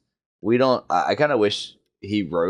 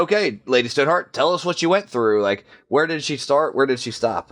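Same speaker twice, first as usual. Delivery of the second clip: eager questioning; 5 semitones higher than usual. Retold or imitated. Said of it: "was like".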